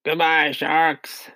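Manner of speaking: drawn-out gleeful farewell; slow cheerful call. A narrator's reading. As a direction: call it out slowly. Characters cheering on the peach.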